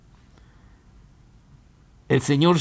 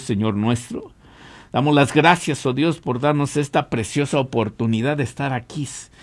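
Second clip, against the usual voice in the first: earnest, steady prayer voice. Acted. Pastor praying for radio listeners, earnest and steady. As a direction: pray over the listeners. Preacher leads opening prayer.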